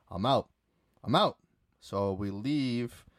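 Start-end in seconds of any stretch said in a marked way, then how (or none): 1.0-1.4 higher and louder, final; emphatic exit. Retold or imitated. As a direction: slam the door with your voice. Repeats, louder.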